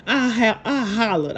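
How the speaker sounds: usual speaking voice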